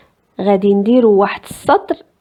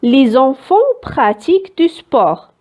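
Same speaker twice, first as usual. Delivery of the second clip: very slow, clear reading of the example; teacher reading an example sentence slowly; slow dictation; 2 semitones higher, much slower than usual. Shown as a demonstration. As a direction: spell out the sentence for pupils.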